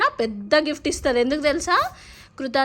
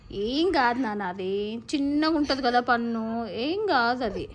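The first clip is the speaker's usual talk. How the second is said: drawn-out, tender reassurance; soothing; 4 dB quieter than usual. Real, not acted. Mother consoling child over lost tooth, soothing. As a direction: comfort a little one, stretching the words gently.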